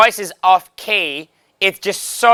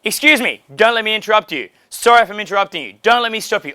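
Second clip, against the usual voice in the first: polite opener; 5 semitones higher, faster than usual. Shown as a demonstration. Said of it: "Use a statement of empathy".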